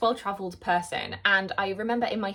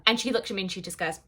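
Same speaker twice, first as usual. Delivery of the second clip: normal talking voice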